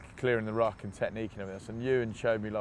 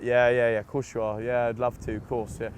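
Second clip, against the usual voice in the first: sarcastic disbelief; 5 dB louder than usual. Retold or imitated. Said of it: "thought it was a wind-up".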